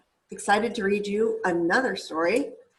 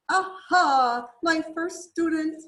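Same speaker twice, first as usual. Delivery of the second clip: high, bright excited bird voice, louder; singsong little bird; 7 semitones higher, 7 dB louder than usual. Acted. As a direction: trill it like a delighted little teacher bird. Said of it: "she sang".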